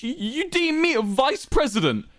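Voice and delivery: barely holding in the fury; contained rage. A narrator's reading. Wilbur insulted by Quackity's offer, contained rage. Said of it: "trying to contain his rage".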